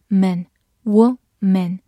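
"woman" split into two slow syllables; slow, separated syllables in "woman". Shown as a demonstration. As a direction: sound out "woman" in parts, slowly. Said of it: "W O发wo".

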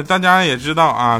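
usual speaking voice

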